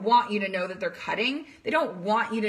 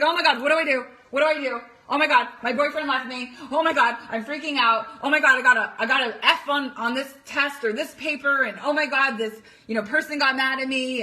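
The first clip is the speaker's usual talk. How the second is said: imitating a panicked teen, a little louder; mock freaking out; 2 semitones higher, 3 dB louder, faster than usual. Coach imitating a triggered daughter, mild mock panic. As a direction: rattle off the worries in mock panic. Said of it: "she's freaking out".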